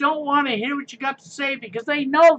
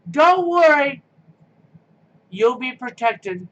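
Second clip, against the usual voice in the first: sarcastic reassurance; slower than usual. Acted. Telling viewers on railroad tracks not to worry, sarcastic. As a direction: pretend to soothe, all sarcasm.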